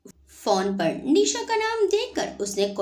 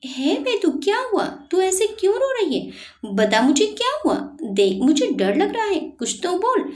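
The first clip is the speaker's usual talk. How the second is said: higher, quicker anxious questions to a sobbing friend; worried pleading; 8 semitones higher than usual. Acted. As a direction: press her to answer, scared for her. Friend alarmed by her sobbing. (रोती सहेली से घबराकर, ऊँची तेज़ आवाज़ में पूछना)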